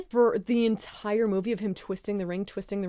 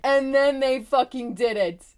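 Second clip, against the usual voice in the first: loud, high-pitched exclamation; amazed, full-voiced exclaiming; thrilled outburst; 5 semitones higher, 6 dB louder than usual. Real, not acted. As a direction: blurt the payoff loudly, pitch up. Climax of excited retelling.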